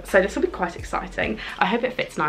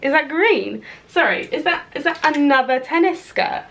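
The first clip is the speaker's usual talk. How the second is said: excited questions; 6 semitones higher than usual. Real, not acted. Excited discovery of tennis skirt.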